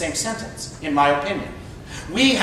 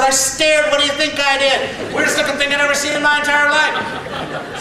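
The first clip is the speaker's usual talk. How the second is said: amused exclamation; 7 semitones higher than usual. Retold or imitated. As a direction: exclaim it with a laugh. Mom retelling her shock.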